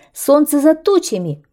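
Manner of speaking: high, loud shout; birds shouting. Acted. Birds insist to the kite, high and loud. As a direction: call it out over the others. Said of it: "закричали птицы".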